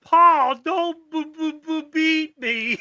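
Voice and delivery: high pleading stammer; stuttering simpleton. Retold or imitated. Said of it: "Doesn't he say that?".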